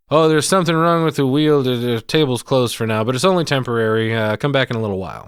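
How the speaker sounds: flustered, hastily made-up excuse; stammered excuse. Retold or imitated. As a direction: act out someone bluffing through an excuse. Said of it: "stammers through some kind of bullshit excuse".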